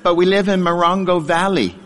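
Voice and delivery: put-on a touch of a little boy's voice; little kid voice. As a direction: say it like a puzzled nine-year-old. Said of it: "And in my little voice".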